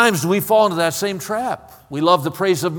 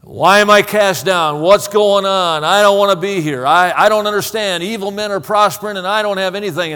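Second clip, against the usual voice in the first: distressed psalmist; 4 semitones higher, 5 dB louder than usual. Acted. Acts out the psalmist's emotional struggle.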